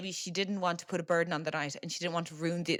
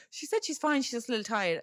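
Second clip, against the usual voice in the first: higher, breezy brush-off; mock dismissive; 4 semitones higher than usual. Family telling the aunt her sister is fine, breezily dismissive. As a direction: shrug it off lightly, half-teasing. Family waves off aunt's concern.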